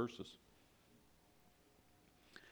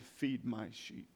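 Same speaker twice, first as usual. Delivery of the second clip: soft, slow and tender; gentle command; 6 dB quieter, slower than usual. Acted. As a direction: hush it like a shepherd. Jesus answers Peter gently.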